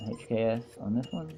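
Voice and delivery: soft sing-song, lifting at the end; softly condescending sing-song; patronizing. Acted. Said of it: "my most patronizing voice".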